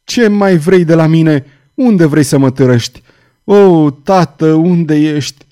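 loud, anguished demands; high, forceful wail; howling outcry. A narrator's reading. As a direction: cry out in distress, calling for help. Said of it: "urlă ea".

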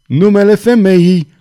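escalating high outcry; shaken shout. A narrator's reading. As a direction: shout it at the top, badly shaken. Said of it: "strigă cutremurat cavalerul".

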